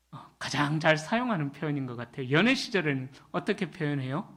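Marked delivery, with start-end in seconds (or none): none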